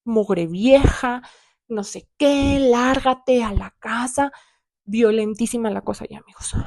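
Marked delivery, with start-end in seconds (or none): 0.0-4.3 slow, spat-out mock insult from father; dad's slow hostile rant, lightly acted; mock angry yell. Father insulting mother, slow mock rage. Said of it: "mi papá ya le decía".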